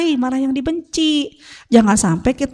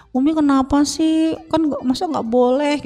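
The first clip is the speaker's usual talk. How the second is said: high, lightly voiced child's protest; imitated complaining child; 5 semitones higher than usual. Son questioning his mother's ban, lightly imitated complaint. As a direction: plead in a higher pitch like a child. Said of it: "Dia bilang".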